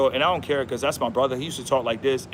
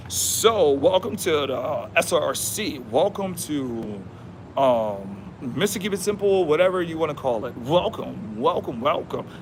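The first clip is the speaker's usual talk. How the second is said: slow, drawn-out mock welcome; mock a robotic host's greeting, dragging it out; lightly acted cheesy host; slower than usual. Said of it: "That's cheesy".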